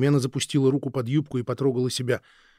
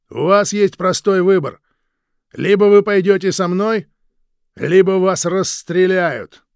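loud, higher, slow threat; loud ultimatum; 8 semitones higher, 12 dB louder, slower than usual. Acted. Guard threatening to shoot them, shouting slowly. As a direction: lay out the threat word by word.

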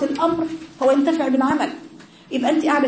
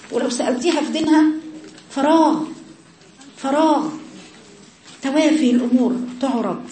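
fervent preaching; 3 semitones higher than usual. Acted. Preacher scolding those who forgot religion, fervent. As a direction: hit فراغ hard, twice.

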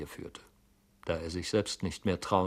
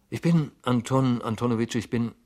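higher, halting, restarting reply; stammering; 5 semitones higher, 6 dB louder than usual. A narrator's reading. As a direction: stammer through a polite reassurance. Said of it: "antwortete stotternd Herr Goljetkin".

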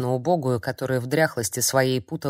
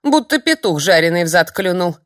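put-on high, loud cheeky old hag; mock her boldly; old crone unafraid of the witch; 4 semitones higher, 6 dB louder than usual. A narrator's reading. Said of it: "не испугалась Нурлиса".

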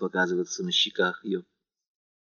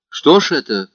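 worried; 6 semitones higher, 5 dB louder than usual. A narrator's reading. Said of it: "с беспокойством".

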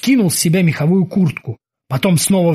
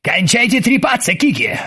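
cutting off; 6 semitones higher than usual. Acted. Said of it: "оборвал его Оззи".

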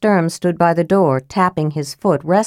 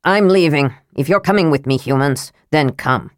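impatient dwarf prince; 3 semitones lower than usual. Acted. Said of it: "he sounded impatient".

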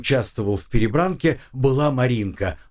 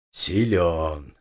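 hollow, low booming voice; 6 semitones lower than usual. Acted. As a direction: let it resound low and hollow. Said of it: "гулко произнёс он".

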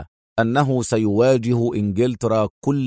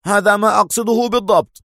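higher, emphatic and decisive; higher firm confirmation; 9 semitones higher, 3 dB louder than usual. A narrator's reading. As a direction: settle it firmly. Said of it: "أجابه أكسيل في حزم".

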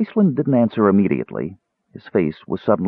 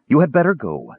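slightly raised husky voice; husky dismissal; 7 semitones higher than usual. A narrator's reading. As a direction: say it with a touch of huskiness. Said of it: "he said in a husky voice".

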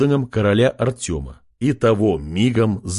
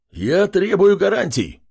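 demanding shout; 9 semitones higher than usual. Acted. Chief demands guarantees, shouting. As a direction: insist with bluster. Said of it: "выкрикнул вождь".

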